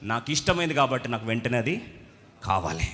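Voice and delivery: stamp your foot, my life my choice; spoiled youth demanding his way; selfish demand. Retold or imitated. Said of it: "అనమా ఇది".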